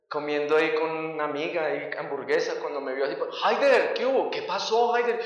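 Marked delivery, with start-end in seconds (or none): 3.4-5.2 startled young follower, lightly acted; quick astonished greeting, imitated; retold alarm. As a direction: ask in mild shocked concern. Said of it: "Él aterrado".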